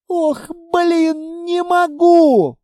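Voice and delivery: high, slow, moaning through helpless laughter; laughed out until it hurts; crying with laughter; groaning with laughter. Acted. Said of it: "простонал Литвин, вытирая слёзы".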